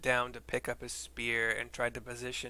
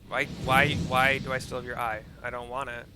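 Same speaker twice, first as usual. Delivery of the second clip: exasperated shout; 8 dB louder than usual. Real, not acted. Complaining about the eye.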